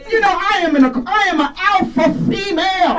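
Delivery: booming grand diva swagger; Jennifer Lewis. Retold or imitated. Comic doing Jennifer Lewis for the crowd, high grand diva voice. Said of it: "People say I sound like her".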